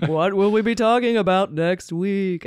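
a hint of a booming game show announcer; Don Pardo voice. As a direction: announce it like a prize reveal. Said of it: "do it in a Don Pardo voice".

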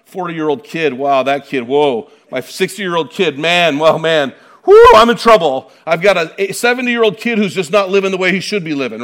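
mock-worried parent building to loud exclamations; fretting parent. Pastor voicing old fathers fretting over adult kids, mock-worried and getting loud. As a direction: play a dad groaning about grown kids, rising loud. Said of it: "a lot of us are out there going".

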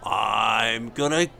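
Bert-style Cockney showman; Cockney flea circus man; Cockney accent. Acted. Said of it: "is that Bert from Mary Poppins?".

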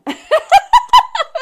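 high loud burst of laughter; big laugh. Real, not acted. After asking for the next race, a big laugh. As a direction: laugh out at yourself.

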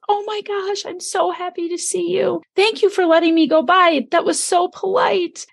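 put-on thrilled to see an old student; delighted surprise. Delighted greeting of former student.

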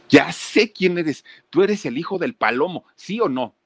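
the penny drops for the stranger; sudden realization. Retold or imitated.

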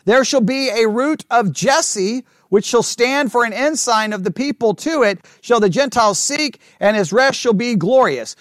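measured, emphatic Bible reading; scripture reading. Acted. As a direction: read the verse out to the class, deliberately. Reads scripture aloud to the class.

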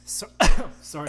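coughing mid-word; choking on a sip of wine; swallowed wrong way. Real, not acted. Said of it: "That went down the wrong way".

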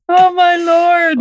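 high, slow exclaim; shocked. Real, not acted. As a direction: drag it out in disbelief. Reacting in mock shock.

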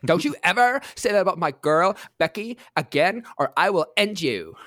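lightly voiced Valley Girl threat; Valley Girl defending her friend. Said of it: "let me get my, uh, Valley Girl voice on here".

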